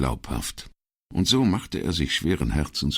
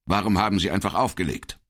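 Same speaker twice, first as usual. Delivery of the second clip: stern; 5 semitones higher, faster than usual. Acted. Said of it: "fragte Patta streng".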